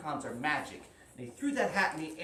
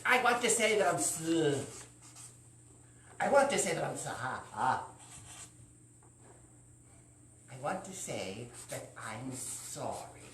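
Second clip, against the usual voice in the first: reluctant apology. Acted. Struggles to apologize.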